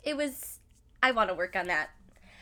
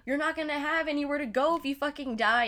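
fast, higher, a bit louder mock scold; imitating mom yelling; 6 semitones higher, 3 dB louder, faster than usual. Mom yelling on phone about dying, fast mock scold. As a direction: rattle it off like a worried mom. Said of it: "she's over here yelling at me".

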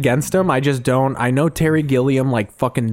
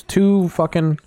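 whisper; 6 semitones higher, slower than usual. Real, not acted.

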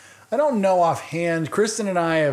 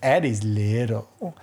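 slow toddler pronouncement, lightly voiced; imitating toddler daughter; 3 semitones lower, much slower than usual. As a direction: lightly mimic a little kid, drawing out the words. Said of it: "she looks at Adelaide and she goes".

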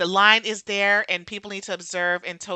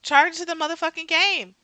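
sassy; 7 semitones higher than usual. Retold or imitated. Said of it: "repeated punchline".

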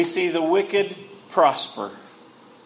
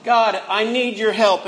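raised-pitch plea for help; praying out; 5 semitones higher than usual. Acted. Preacher acts out our prayer to God, pleading. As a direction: pray it out, mildly pleading. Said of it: "we pray it out to God".

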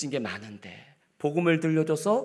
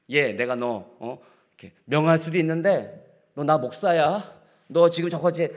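pulling rank, a bit louder; bossy pastor; 3 semitones higher, 3 dB louder than usual. Shown as a demonstration. Pastor demonstrating commanding by rank, bossy. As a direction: lord it over them. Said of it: "이게 아니고요".

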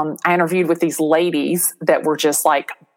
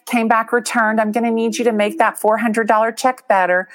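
retold polite demand; 4 semitones higher than usual. Acted phone call to bad payer.

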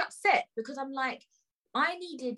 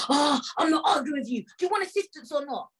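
mimicked exasperated staff voice, pitched up; irritated shouting man; 4 semitones higher than usual. Station worker offering assistance in an argument, exasperated. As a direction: imitate him losing patience. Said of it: "you're still shouting".

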